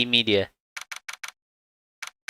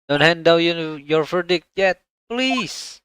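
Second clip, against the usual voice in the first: high, urgent call to stop; urgent plea; 6 semitones higher, slower than usual. Acted. Lawyer crying out to stop the verdict. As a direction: cry out to halt the judge.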